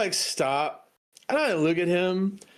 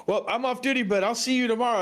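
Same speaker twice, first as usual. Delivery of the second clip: higher, breezy brush-off; mock casual exit; 9 semitones higher, faster than usual. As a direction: try to slip away politely. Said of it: "I'm like".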